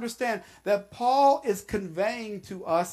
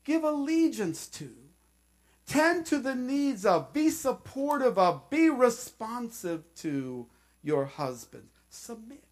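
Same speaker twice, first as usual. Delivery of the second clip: gentle request. Shown as a demonstration. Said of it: "He's saying".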